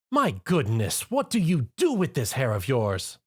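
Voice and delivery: lightly voiced refined lady, slow start; a hint of a fussy posh unicorn; gently exasperated lady; Rarity voice.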